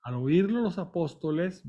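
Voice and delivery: normal talking voice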